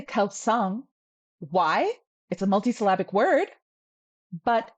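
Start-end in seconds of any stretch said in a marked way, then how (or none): 0.0-0.8 Kelsang with a P sounded before the S, "kelpsang"; intrusive P in Kelsang. Shown as a demonstration. Teacher shows what we don't say, Kelsang with an added P. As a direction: put a P in the middle of Kelsang. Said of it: "We don't say Kelsang".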